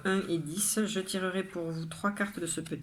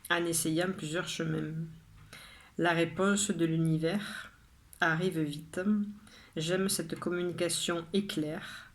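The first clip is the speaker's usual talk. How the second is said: measured poem reading, pausing after each line; poem recitation. Acted. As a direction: read your poem out line by line, with deliberate pauses. Reads own poem a third time.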